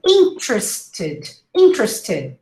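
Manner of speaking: "Interested" as IN-trs-tid; full first vowel in "Interested", schwa for the rest; "Interested" squeezed to three syllables; reduced pronunciation. Shown as a demonstration. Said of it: "this is how you pronounce it".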